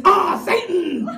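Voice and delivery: slow, loud ah, Satan; slow comic reveal; drawn out reveal. Shown as a demonstration. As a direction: spell out the reveal slowly. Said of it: "Natasha backwards is".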